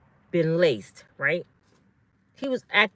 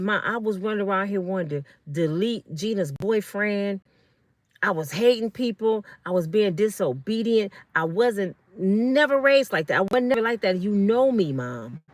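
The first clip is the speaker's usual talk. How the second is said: imitating an emphatic, serious son; talking strong; 2 semitones higher than usual. Son in serious talk with his mother, talking strong. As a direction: retell his firm plea to be believed. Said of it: "He was talking strong".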